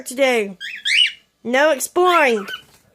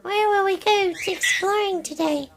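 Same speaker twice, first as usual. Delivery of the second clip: high, cheeky voice for the birds; 6 semitones higher than usual. Pretend. Voicing birds planning exploring.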